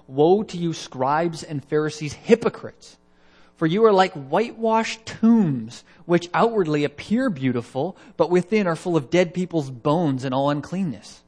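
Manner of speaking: Jesus condemning the Pharisees, loud and harsh; harsh rebuke. Retold or imitated. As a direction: thunder it at the hypocrites as Jesus. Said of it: "He was very harsh".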